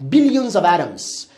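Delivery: billions of atoms said slowly; slow English model. Shown as a demonstration. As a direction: dictate it slowly for translation. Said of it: "برو". (آرام برای ترجمه)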